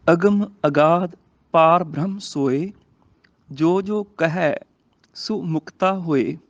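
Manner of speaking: slow, measured verse reading; scripture recitation. Shown as a demonstration. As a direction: recite slowly, phrase by phrase. (ਹੌਲੀ, ਠਹਿਰਾਅ ਨਾਲ ਗੁਰਬਾਣੀ ਪਾਠ)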